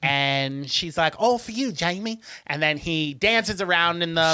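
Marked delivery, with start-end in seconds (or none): 1.2-2.2 higher, put-on English accent; English mum presenting a gift, lightly acted; imitation English mum. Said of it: "I'm doing an English accent".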